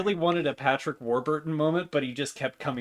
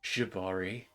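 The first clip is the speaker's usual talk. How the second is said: sexy Minotaur voice; 3 semitones lower than usual. Acted. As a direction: purr it like a vain showman. Morty character voice.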